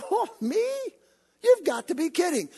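high, startled disbelief; incredulous Gideon. Acted. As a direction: Gideon scoffing in surprise.

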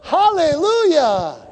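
high, loud, slow hallelujah; preacher rejoicing at the chance to serve; joyful hallelujah. Retold or imitated. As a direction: sing out the praise. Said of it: "And I'm like".

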